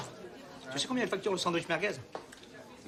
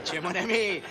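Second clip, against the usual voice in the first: laughing mock; 4 semitones lower than usual. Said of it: "il me fait".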